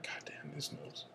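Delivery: whispered muttering at the drawn card; under-breath mutter. Shown as a demonstration. Player muttering over his freshly drawn card, whispered. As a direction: whisper it to yourself, barely audible. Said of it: "something little like that".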